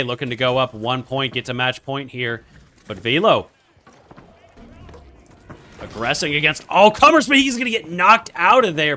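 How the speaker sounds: steady esports commentary rising on the action; play-by-play. Pretend. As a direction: call the match live, lifting for each hit. Live match commentary.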